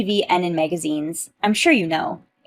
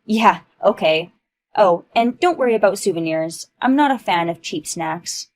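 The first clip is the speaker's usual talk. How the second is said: haughty bragging; 6 dB louder than usual. Acted. Ava brags about hotels.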